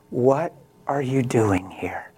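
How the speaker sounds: slow, gentle question; retold divine question, unhurried and mild; not mean, overwhelming. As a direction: ask it slowly, without any meanness. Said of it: "Not in a mean way, in an overwhelming way".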